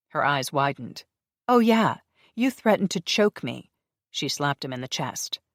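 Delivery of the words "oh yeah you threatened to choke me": loud, high indignant retort. Acted. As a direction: throw it back at him.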